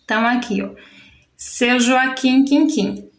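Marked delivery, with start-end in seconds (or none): 1.3-3.1 "seu Joaquim Quinquim" slowly, echoing the last syllable; "seu Joaquim Quinquim" as a measured chant; repeated syllable. Shown as a demonstration. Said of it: "a sílaba que se repete no verso".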